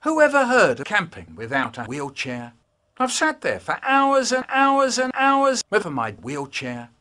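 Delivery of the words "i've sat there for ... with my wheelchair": high silly voice. Acted. High put-on voice, parody.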